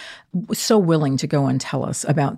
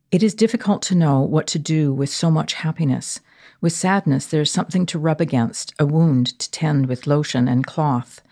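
poem reading. Acted. Reads a poem aloud.

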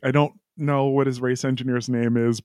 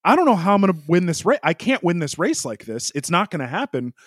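higher, pressed, complaining radio rant; frustrated Charles rant; 5 semitones higher than usual. Retold or imitated. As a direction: imitate an angry driver demanding to know why. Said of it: "that was the tone".

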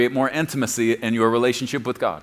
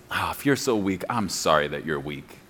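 mock sarcastic apology; 11 semitones lower, 8 dB quieter than usual. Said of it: "That's what that actually means".

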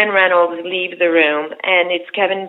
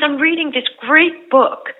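higher, slow, earnest read; a hint of Jeff Bridges, slow and keen; imitating Jeff Bridges; 7 semitones higher, 4 dB louder, slower than usual. Jeff Bridges introducing his book to the cast, higher and slow. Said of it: "he goes".

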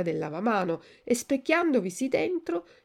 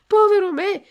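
much higher, much louder wail on povero; desperate shout; 12 semitones higher, 10 dB louder than usual. A narrator's reading. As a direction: wail it out at the top of the voice. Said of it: "gridò Pinocchio".

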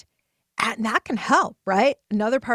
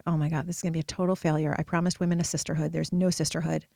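lower, fast, worried rush; retold panic; 5 semitones lower than usual. Fearing her launch has failed, low and panicky.

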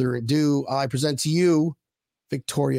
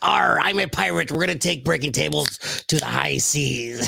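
pirate voice. Pretend. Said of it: "That was a terrible pirate voice".

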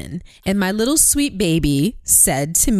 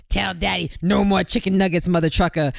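mocking the husband's version; 3 semitones lower than usual. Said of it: "attitude and the twang on it".

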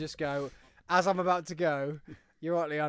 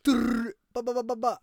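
excited cheer; 7 semitones higher, much slower than usual. Retold or imitated. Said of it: "I'll be like".

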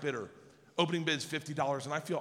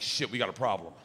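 lowered conspiratorial tone; 8 semitones lower, faster than usual. Retold or imitated. Dad in low conspiratorial voice.

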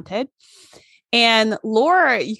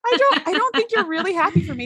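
higher, flat android voice; Data's flat doubt; 8 semitones higher than usual. Retold or imitated. Data to Lore, lightly voiced flat android doubt. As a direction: calmly call out the lie. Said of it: "he's just like".

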